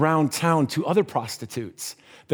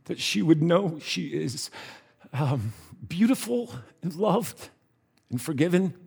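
reverent prayer; 7 dB quieter than usual. A narrator's reading. Tony and Harry pray for Agnes, reverently.

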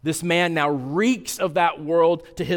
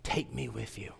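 soft, lower heartfelt plea; preacher voicing the healed man's soft plea to Jesus; gentle begging; 4 semitones lower, 12 dB quieter than usual. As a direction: ask softly, as a healed man pleading. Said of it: "begging from Jesus as well".

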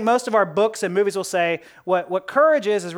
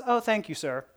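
mock meek; 6 dB quieter than usual. Answering a punch in the face, mock meek. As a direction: play a meekly grateful victim, trailing down.

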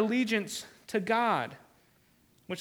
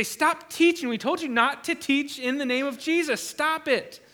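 scolding council; 5 semitones higher than usual. Retold or imitated. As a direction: scold the apostles sharply. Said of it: "and they say".

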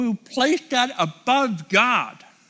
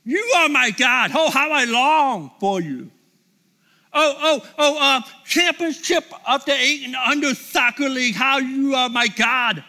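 mock yearning; 3 semitones higher than usual. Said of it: "it will be like".

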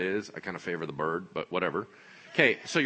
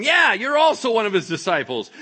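loud, high chiming-in; insistent, raised-pitch challenge; crowd's accusation; 11 semitones higher, 11 dB louder than usual. Acted. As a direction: back up the charge forcefully.

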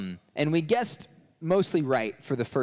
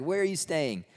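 higher-pitched, lightly mocking repeat; mock incredulous question; 5 semitones higher than usual. Disciples replaying their silly question, mock incredulous. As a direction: toss the question back, high and quick.

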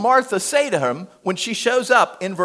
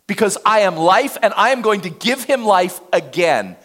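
proclaiming; 3 semitones higher, 5 dB louder than usual. Acted. Preacher voicing Jesus proclaiming.

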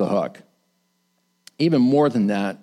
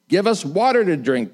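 mock demand; 5 semitones higher than usual. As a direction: demand it like a spoiled crowd. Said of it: "they demanded".

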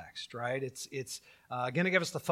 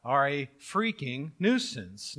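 mock dogmatic believer; 4 dB louder, slower than usual. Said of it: "they make an assertion".

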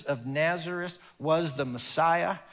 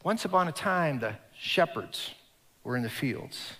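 storytelling voice. Shown as a demonstration. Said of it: "it's very conversational".

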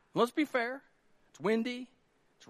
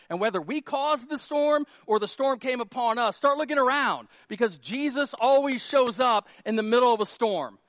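loud, raised preaching; 4 semitones higher, 6 dB louder than usual. Real, not acted. Pastor urging congregation to look around in storms, forceful preaching.

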